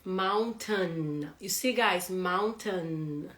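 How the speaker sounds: "mountain" ending in "tun", drawn out; teacher showing "mountain" without the I sound; silent I. Shown as a demonstration. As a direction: model "mountain" slowly as "moun-tun". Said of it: "we don't pronounce that".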